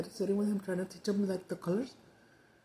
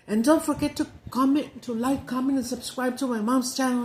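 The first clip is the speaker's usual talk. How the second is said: higher, louder imitated kid plug; little son; 4 semitones higher, 6 dB louder than usual. Imitating little Jesse plugging mom's channel, high eager kid voice. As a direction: pipe up like a small boy doing a video sign-off. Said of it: "right away he would say".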